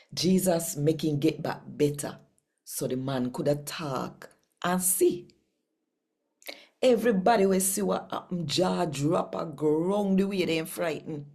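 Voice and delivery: lively Jamaican Bible reading, rising and falling; scripture reading. Acted. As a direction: read the gospel out like telling good news to the congregation.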